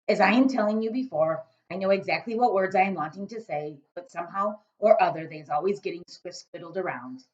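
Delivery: big loud giant, muddling his words. A narrator's reading. Giant grumbling to Sophie about snozcumbers, big booming voice. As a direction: boom it out as a kindly giant.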